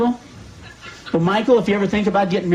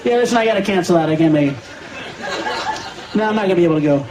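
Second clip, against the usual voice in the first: cancel on your friends, then blurt it out; henpecked husband on phone; faster than usual. Retold or imitated. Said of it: "on the phone going".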